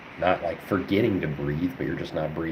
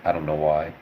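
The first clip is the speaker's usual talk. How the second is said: talking through a yawn; words stretched by a yawn; 3 semitones lower than usual. Real, not acted. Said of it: "I yawned".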